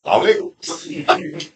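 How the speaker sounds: "Salam alaikum" drawn out slowly and softly; slow drawn-out greeting. Retold or imitated. Old robber greeting him at the janaza, slow and soft. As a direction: stretch "Salam alaikum" out long and quiet. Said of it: "he said".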